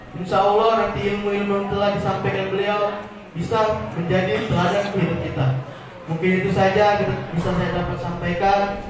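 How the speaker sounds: slightly hoarse, rough throat. Real, not acted. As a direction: speak through a sore, hoarse throat. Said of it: "mohon maaf suara agak serak ini". (suara serak)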